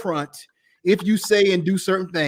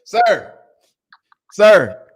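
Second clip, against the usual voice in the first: breathless whispered "sir"; awed whisper; 5 dB louder than usual. Real, not acted. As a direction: whisper it in disbelief. Awed whisper reacting to story.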